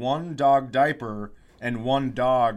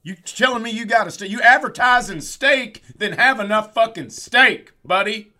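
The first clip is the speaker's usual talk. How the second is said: shouted, much higher mock Philadelphia rant; mock Philadelphia accent; 9 semitones higher, 9 dB louder than usual. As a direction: bark it like an angry Philly guy in a steakhouse. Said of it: "I know that's not how they sound in Philadelphia, but I can't do that accent".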